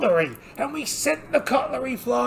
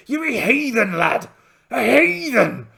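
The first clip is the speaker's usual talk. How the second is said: louder, mock-stern telling-off; mock scold; 5 dB louder than usual. Captain scolding his first mate, mock-stern telling-off. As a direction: scold the lad like a cross captain.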